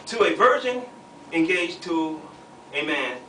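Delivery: measured, emphatic Bible reading; scripture reading. A narrator's reading. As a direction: read the verse out to the room, weighting each phrase. Reads scripture aloud to the group.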